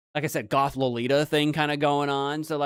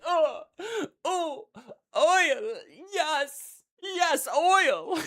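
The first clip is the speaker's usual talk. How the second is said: high pleasured chef voice; swooning French chef; 13 semitones higher, much slower than usual. Acted. Chef oiling himself.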